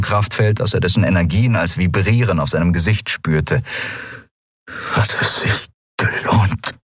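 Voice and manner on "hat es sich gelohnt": breathless, dying rasp, slow; a weak wheeze from a broken man; barely voiced gasping question. A narrator's reading. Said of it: "bevor ihn ein Hustenkrampf schüttelte".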